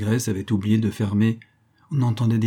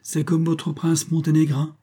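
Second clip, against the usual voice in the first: higher knowing captain voice; sententious Barbassou; 6 semitones higher than usual. A narrator's reading. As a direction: lecture him like a sage. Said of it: "fit sentencieusement le capitaine Barbassou".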